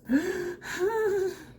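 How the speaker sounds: sharp high gasp of nerves; nervous gasp. Real, not acted. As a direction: suck in a nervous breath. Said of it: "I'm doing that 'cause I'm kinda nervous".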